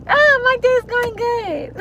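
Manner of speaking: high, slow, laughing through it; forced polite answer breaking into laughter; awkward answer. Retold or imitated. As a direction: squeak it out while cracking up. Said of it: "I'm gonna have to be like".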